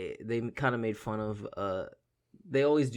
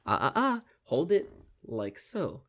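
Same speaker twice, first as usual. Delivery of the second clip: teasing salesman; 3 semitones higher than usual. Retold or imitated. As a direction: draw it out like a smug showman. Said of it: "And he goes".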